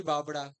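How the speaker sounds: बाबड़ा with a retroflex flap in the middle; बाबड़ा, said the Haryanvi way; Haryanvi pronunciation. Shown as a demonstration. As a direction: curl the tongue back on the ड़ of बाबड़ा. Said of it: "ड़ तक की sound देता है".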